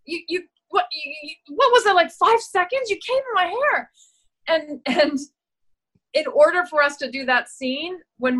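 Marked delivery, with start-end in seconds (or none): 0.0-3.9 high, stammering shocked outburst; mock-appalled actress line; acted shock. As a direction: sputter it out in disbelief. Acting her shocked line in scene.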